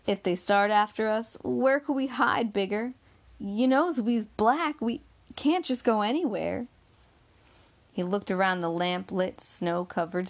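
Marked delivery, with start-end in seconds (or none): 0.1-6.7 a gentle higher woman's voice, begging him to stop; pleading Bessie. Acted. Bessie begging Bigger to drop the plan, lightly voiced plea.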